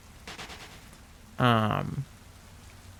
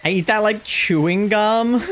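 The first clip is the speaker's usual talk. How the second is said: higher voice; 9 semitones higher, 4 dB louder than usual. Retold or imitated. Reading a chat message.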